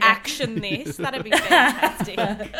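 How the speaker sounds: politely impatient. Acted. Mock corporate email voice.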